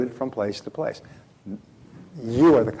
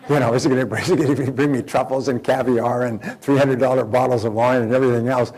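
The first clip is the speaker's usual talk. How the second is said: laughing through an anxious list of luxuries; 4 dB louder than usual. Retold or imitated. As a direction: chuckle as you picture the huge bill. Laughing at his own worry.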